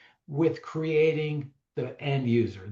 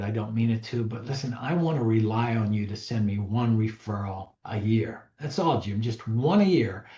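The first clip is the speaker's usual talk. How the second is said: lower, steady, earnest request; sincere direct ask; 4 semitones lower than usual. Shown as a demonstration. Agent asking Jim for one referral a year, sincere and firm. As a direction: look him in the eye and ask for the commitment. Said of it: "it sounded like this".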